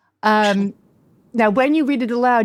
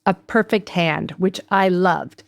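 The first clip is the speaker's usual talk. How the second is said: measured, polished host read; scripted podcast introduction. Acted. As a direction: read the show intro with clear phrasing.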